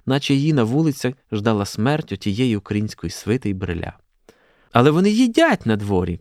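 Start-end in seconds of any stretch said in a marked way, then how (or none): 4.7-6.2 exclaimed schoolgirl horror; mild shocked cry. A narrator's reading. Both schoolgirls spotting students eating outdoors, exclaiming. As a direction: cry out, a little louder and higher. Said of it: "крикнули обидві інститутки".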